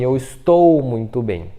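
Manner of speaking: slow down and lean on "estou"; "estou" stretched out and emphasised; stress on ESTOU. Shown as a demonstration. Teacher shows the unneeded verb, "estou" drawn out and stressed. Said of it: "não precisa falar assim".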